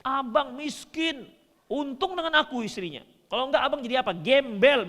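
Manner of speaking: a hint of a wife cursing her husband; lightly voiced wife calling husband a bum; mock scolding wife. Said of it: "dicaci maki istri misalnya".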